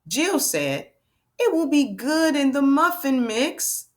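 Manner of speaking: slow, emphatic read-aloud; spaced-out words with a lively storybook lilt; reading to children. Acted. Teacher reading a decodable to friends, emphatic read-aloud.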